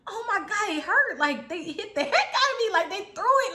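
pained protest. Retold or imitated. Complains that the blow hurt.

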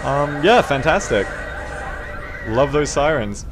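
deadpan fake praise; sarcastic. Real, not acted. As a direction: praise it mockingly. Praising hated map ironically.

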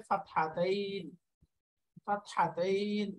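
ফাতহাতাইন slowly, as fat-ha-tain; Arabic term pronounced. Shown as a demonstration. Teacher giving the Arabic name to learners, slow pronunciation of ফাতহাতাইন. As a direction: draw out the last syllable of ফাতহাতাইন. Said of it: "এটাকে আরবিতে বলে".

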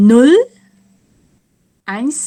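slow counting. Shown as a demonstration. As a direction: count slowly, one number at a time. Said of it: "ถ้านับเร็วๆ ก็จะเป็น". (นับช้าๆ ทีละคำ)

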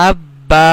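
আব্বা with a held ব and long final vowel; doubled and stretched. Shown as a demonstration. Teacher showing the alif rule, আব্বা with long final vowel. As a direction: hold the b, then draw out the end of আব্বা. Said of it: "এক আলিফ টেনে পড়িতে হবে".

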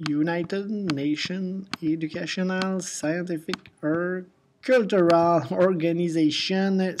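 careful English with a French-speaker's accent; not-very-good English accent. Real, not acted. Teacher shows students what UNESCO stands for, imperfect English accent. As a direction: pronounce the English title deliberately, French-tinged English accent. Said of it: "avec mon super accent anglais qui est pas très bon".

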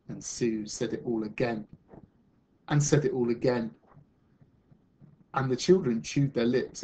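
measured, expressive picture-book reading; storyteller reading to children; story narration. Acted. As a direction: read a story aloud to a class, with lift on the key words.

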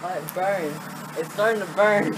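ice burning skin. Real, not acted. Ice burning his back.

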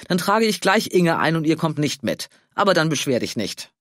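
an indignant outburst; angry. Acted. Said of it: "starrte seinen Schwager wütend an". (wütend, lauter Vorwurf)

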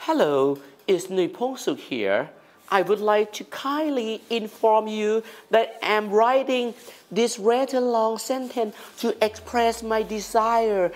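high-pitched, slow, overly courteous English; polite. Shown as a demonstration. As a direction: read it out very formally and politely. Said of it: "มีแบบ polite นะฮะ แบบสุภาพ".

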